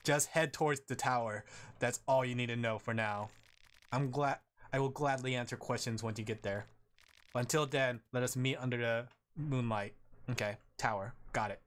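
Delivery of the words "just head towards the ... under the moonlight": lightly voiced monotone servant of a moon god; understated mysterious messenger. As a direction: deliver it evenly, with formal measured phrasing. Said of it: "I gotta put my monotone voi".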